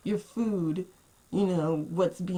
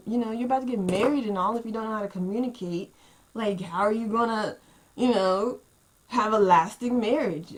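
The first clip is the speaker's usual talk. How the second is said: heated scolding; 3 semitones higher, 4 dB louder than usual. Retold or imitated. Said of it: "I'm like".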